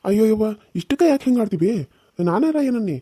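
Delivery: high-pitched, pleading objection; exasperated protest. Acted. Son protests at mother's scolding. (ಬೇಸರದಿಂದ ದನಿ ಏರಿಸಿ ಆಕ್ಷೇಪಿಸುವುದು)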